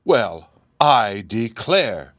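slow, drawn-out wonder. A narrator's reading. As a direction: marvel at it slowly. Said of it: "said in a tone of wonder".

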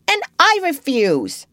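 little brother loudly backing John up; small boy's defiant cry. A narrator's reading. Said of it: "cried Michael".

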